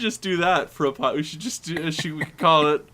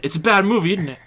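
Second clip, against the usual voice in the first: put-on light Cockney accent; a loose Cockney voice; a light Cockney voice bragging about his films; Michael Caine impression. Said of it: "This accent is".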